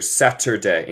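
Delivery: "Saturday" in neutral English with a clear t. Shown as a demonstration. Teacher contrasts neutral English Saturday. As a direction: say "Saturday" crisply, t not flapped. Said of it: "inglés neutral".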